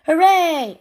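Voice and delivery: high, loud hooray; joyful storybook cheer. A narrator's reading. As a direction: cheer out with a long second syllable. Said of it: "everyone cheered".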